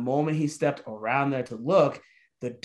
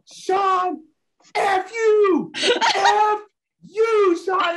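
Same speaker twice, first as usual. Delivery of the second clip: high, loud mock yell with a cracking laugh; retold furious yelling; 7 dB louder, much slower than usual. Friend yelling after being left behind, high mock yell. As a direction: scream it at your friend, half laughing.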